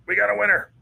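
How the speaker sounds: bright cheer of praise for a pet; excited cheer. Real, not acted. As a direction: celebrate the pet coming over. Pet finally comes over.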